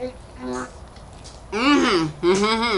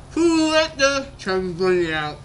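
muffled laughing shout, mouth full; cheeks stuffed full. Real, not acted.

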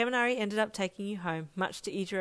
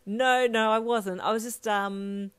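flustered; 4 semitones higher, 7 dB louder, slower than usual. A narrator's reading. Flustered denial.

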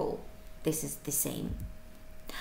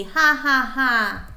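mock laugh; 3 semitones higher, 6 dB louder, slower than usual. Shown as a demonstration.

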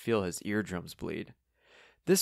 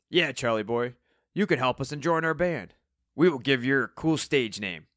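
higher, eager character voice; rally him into the band; lively, matey old bandmate; Steve, chummy old rocker; 5 semitones higher, 3 dB louder than usual. Acted.

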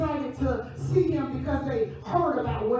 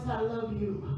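soft, hushed and low; still small voice; 4 semitones lower, 6 dB quieter than usual. Retold or imitated. God speaking tenderly to the listener, soft and hushed. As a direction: breathe it gently like a whisper of love. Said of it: "who says in a still voice".

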